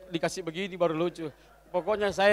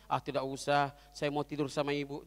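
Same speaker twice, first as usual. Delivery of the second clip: dismissive husband; 5 semitones lower, 6 dB quieter than usual. Acted. Husband brushes off wife's breakfast invitation.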